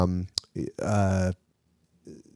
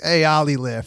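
put-on light New York accent on Ollie lift; 4 semitones higher than usual. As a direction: say it like a New Yorker, a bit higher. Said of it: "my New York accent's like".

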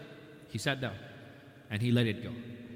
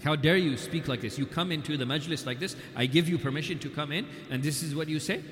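angry rebuke; 3 semitones higher than usual. Retold or imitated. Umar rebuking the rude guest, mock angry. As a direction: scold him for his insolence. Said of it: "he got angry".

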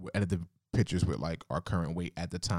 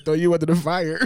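mocking quote; 9 semitones higher, 10 dB louder than usual. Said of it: "You said".

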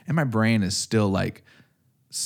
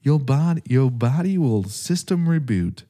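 article voice; 3 semitones higher than usual. Retold or imitated. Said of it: "every article said".

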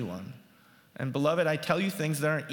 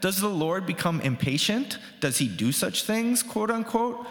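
scripture reading. Acted. Pastor reading Micah aloud to his congregation, declaiming. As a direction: read the prophet's words out to the congregation.

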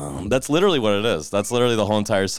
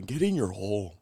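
put-on Native American accent; 7 dB quieter than usual. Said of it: "mixed with, like, a Native American accent".

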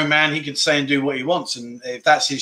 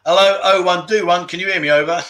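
radio call, higher and louder; toy walkie talkie; 3 semitones higher, 3 dB louder than usual. Pretend. Mimics radio call with "Over.

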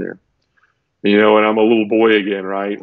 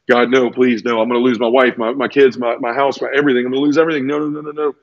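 mounting plea, pitch climbing toward the end; re-enacted desperate pleading, words running together; retold panic; 3 semitones higher than usual. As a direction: build from pleading into helpless denial. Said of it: "started to have that panic feeling".

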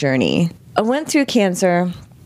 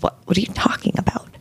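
fast, hushed brushing-off; husband's quick whisper; 3 semitones higher, 4 dB quieter, faster than usual. Retold or imitated. Husband dismissing her worry, a quick hushed whisper.

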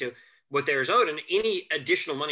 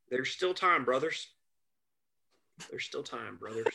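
put-on Southern accent; 4 dB quieter than usual. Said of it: "he had this great Southern accent".

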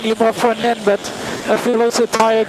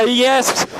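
excited laugh; 3 semitones higher than usual. Real, not acted. Driver reacts to taking pole.

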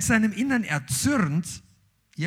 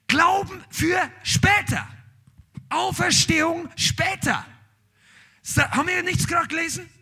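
higher, building preacher's call to the congregation; fervent preaching; 5 semitones higher than usual. Acted. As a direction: preach it, rising to a shout. Preacher builds to full force.

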